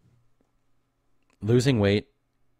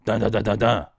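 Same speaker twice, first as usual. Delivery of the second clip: counting syllables; 3 semitones higher, 6 dB louder than usual. Shown as a demonstration. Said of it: "ten syllables versus one".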